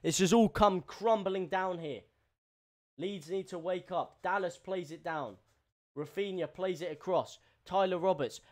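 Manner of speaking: brisk running football commentary; live play-by-play. Acted. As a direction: call the match as it unfolds. Commente le match en direct.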